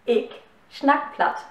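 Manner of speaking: "ich" said as Plattdeutsch "ik", hard k; careful Plattdeutsch model sentence, "ich" ending in k; Low German. Shown as a demonstration. Teacher models "ich" as "ik" for learners, in Plattdeutsch. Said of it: "Satz einmal auf Plattdeutsch sagen".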